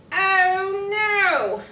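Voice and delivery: high, loud hammed-up gasp; mock dismay. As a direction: play the shock big for kids. Button pops, dramatic dismay.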